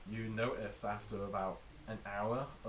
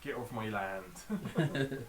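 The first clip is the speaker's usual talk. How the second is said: slow Somerset farmer drawl; grumpy West Country farmer; Somerset accent; much slower than usual. Retold or imitated. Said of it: "You're in a proper Somerset accent".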